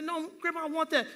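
mock whine to grandma; a hint of a demanding little boy; pleading kid. Child demanding candy from grandmother.

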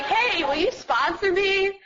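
high, drawn-out awkward request; bashful asking. Retold or imitated. Newcomer staring at her shoes asks a woman to sponsor her, bashful. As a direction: imitate a shy newcomer working up to a big ask. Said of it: "staring at my shoes".

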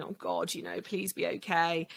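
breathy whisper, barely voiced; whispered prayer. Mother praying over her sick child at night, whispered. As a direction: whisper a desperate little prayer to yourself.

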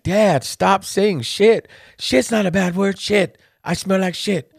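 hammed-up high voice, drawn out; mimicking sister and dad. Sister scolding dad over cursing, in a high mock voice. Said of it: "She's like".

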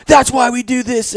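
high, slow, drawn-out mock scream; imitated high victory yell; corny triumphant yelling. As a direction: stretch out a cheesy victory holler, sending yourself up. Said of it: "I start screaming and yelling".

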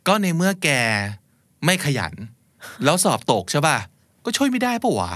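smug lecture. Retold or imitated. Acting the smug friend.

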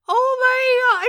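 high, loud oh my God; mock shocked. Mother reacting to daughter's word, high delighted. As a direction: gasp it out in delight. Mother quoting herself laughing.

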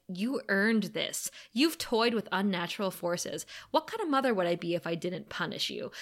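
understated stern mother; Joyce, cold reproach. Acted. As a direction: pronounce judgment quietly and deliberately. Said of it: "that is the demon influence talking".

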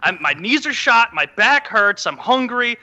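high, loud mock complaining; whiny excuse-making. Host after losing, complaining in a mock whine. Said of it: "excuse after excuse".

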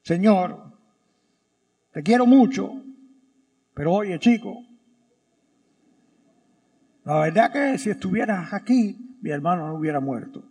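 Mary gently telling Jesus, softly. Acted. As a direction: reproach him lovingly like a sister. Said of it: "me imagino a María un poco más suave".

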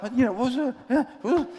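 puffing up to a stranger; a touch of street swagger; mock tough challenge. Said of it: "I'm like".

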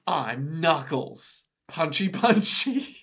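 lightly voiced brute; goofy Knuckles. Imitating Knuckles for a friend, slow and dopey. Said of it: "So he's all like".

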